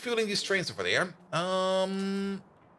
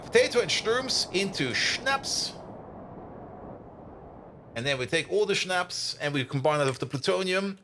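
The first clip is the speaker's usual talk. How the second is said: ordinary talk, nothing marked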